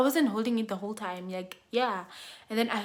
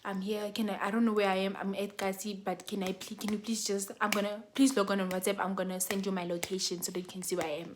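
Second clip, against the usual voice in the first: low, hushed phone voice; very soft; 3 semitones lower, 7 dB quieter than usual. Retold or imitated. Trapped woman secretly calling a cab, very soft voice. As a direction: speak softly so nobody overhears. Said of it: "very softly".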